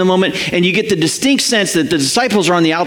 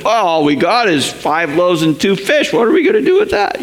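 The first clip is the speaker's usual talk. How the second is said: whiny disciples. Retold or imitated. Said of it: "responding to him with".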